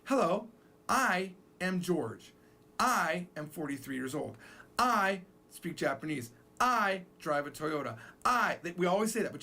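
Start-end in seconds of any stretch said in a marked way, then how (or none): 0.0-8.0 slow, stressing each "I"; repetitive English self-introduction. Shown as a demonstration. Teacher shows how English speakers repeat "I". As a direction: plod through each "I" sentence. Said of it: "We say".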